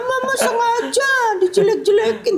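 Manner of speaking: high, hammed-up wail of complaint; mock crying. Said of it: "gitu, nangis". (menirukan anak menangis merengek)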